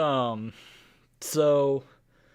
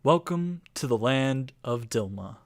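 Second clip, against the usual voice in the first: game master painting the world for the players; storyteller voice opening the campaign; scene-setting narration. Acted. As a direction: set the stage like a storyteller.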